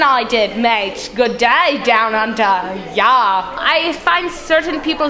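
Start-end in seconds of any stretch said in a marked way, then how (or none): 0.0-3.5 put-on a light, half-hearted Australian accent. Curator shows off his so-called excellent Australian accent. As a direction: drop a casual Aussie 'mate' and 'Good day'. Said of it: "I can do this excellent Australian accent".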